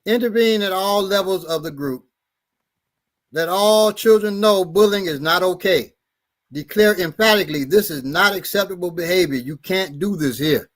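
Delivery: measured read-aloud of a handout; reading advice aloud. Acted. Reading bullying advice to listeners, measured and formal.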